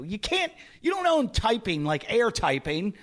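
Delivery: high-pitched mocking disbelief; retold exasperated protest; incredulous retort. Retold argument, ridiculing his claim.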